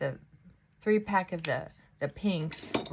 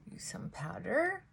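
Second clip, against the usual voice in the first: whispered aside; 5 dB quieter than usual. Real, not acted. Whispered aside during makeup.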